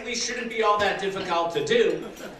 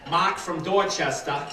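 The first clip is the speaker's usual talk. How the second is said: put-on Boston accent. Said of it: "I can say it with that accent".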